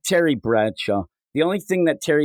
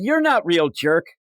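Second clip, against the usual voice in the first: high, dismissive jab; mock retort; 4 semitones higher than usual. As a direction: toss it back like a playground insult.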